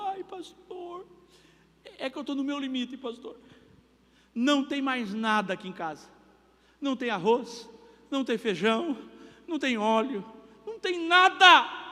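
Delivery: imitando uma irmã aflita, voz aguda, chorosa, quase gritando no fim; irmã chorando. Retold or imitated. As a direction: lamento agudo de quem não tem mais nada. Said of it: "tocou uma irmã chorando". (irmã sem comida desabafa chorando com o pastor, aguda)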